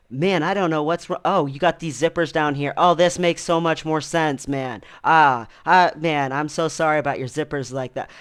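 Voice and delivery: retold confusion tipping into apologetic relief; confused, apologetic. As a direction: imitate a baffled guy suddenly catching on. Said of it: "didn't seem like he understood what was happening".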